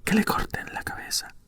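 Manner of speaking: forceful cry kept to a whisper; whispered shout. A narrator's reading. Furious Queen ordering a beheading, mock shout in a whisper. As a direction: shout it under your breath, mildly. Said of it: "empezó a gritar".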